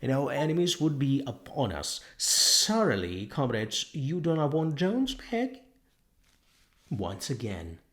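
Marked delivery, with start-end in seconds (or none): 0.0-5.7 high, loud, insistent pig orator; Squealer lecturing. Acted. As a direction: drive the warning home to the crowd.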